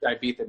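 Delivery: Ibiza with a th for the z; th pronunciation. Shown as a demonstration. Guest says Americans miss it, Ibiza with th. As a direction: say Ibiza as "eye-BEE-tha". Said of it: "no one understands".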